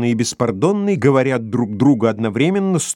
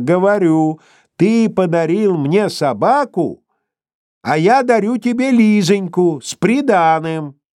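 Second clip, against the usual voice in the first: called out in a higher pitch; 6 semitones higher than usual. A character repeats herself into a hard-of-hearing man's ear: shouting into his ear. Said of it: "кричит ему в ухо".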